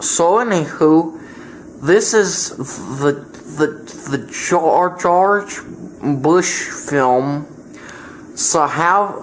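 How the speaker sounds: goofy dimwitted Texan president voice; lightly voiced bumbling Bush boasting; George W. Bush impression. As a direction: play Bush as a proud simpleton.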